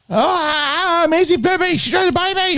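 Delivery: put-on high, whining child complaining; whiny kid voice. Dad imitating his eight-year-old tattling on her sister. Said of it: "the eight-year-old is like".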